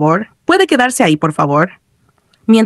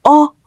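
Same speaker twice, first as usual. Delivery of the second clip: higher-pitched "oh"; mild cry of fright; 7 semitones higher than usual. A narrator's reading. Player still being chased, mild cry of fright. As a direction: cry out briefly, startled. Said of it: "volvió a gritar".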